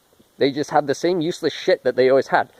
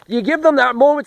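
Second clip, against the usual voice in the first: building excitement; 8 semitones higher than usual. Acted. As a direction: start pumping up the crowd. Hyping up a cheering crowd.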